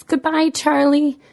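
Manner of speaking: put-on high, slow tearful child's goodbye; a small child saying goodbye through tears; high and slow, a little girl weeping her farewell; crying little girl. A narrator's reading. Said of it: "and Bertie cries".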